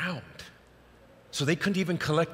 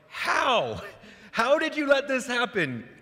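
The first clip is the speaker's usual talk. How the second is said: blaming; 12 semitones higher, 3 dB louder, slower than usual. Retold or imitated. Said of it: "she's sort of blaming him".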